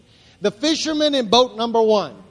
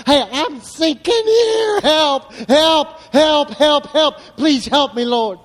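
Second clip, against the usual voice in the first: much higher, louder calls for help; desperate cry for help; 4 semitones higher, 6 dB louder, slower than usual. Retold or imitated. A sinking person calls out to the Lord, desperate and loud. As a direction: cry out as if drowning. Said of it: "won't ever tell anybody".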